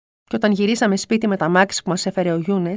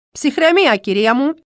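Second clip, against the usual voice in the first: pharmacist calming; 3 semitones higher, 4 dB louder than usual. Retold or imitated. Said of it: "έλεγε ο φαρμακοποιός".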